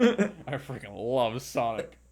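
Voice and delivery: slow, laughing through I freaking love Sonic; laughing repeat. Pretend. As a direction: savor it, chuckling, slow. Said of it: "repeats the line laughing".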